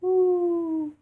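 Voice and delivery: high hooting owl call. Retold or imitated. Imitating an owl for the kids, high hoot. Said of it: "has feathers and says".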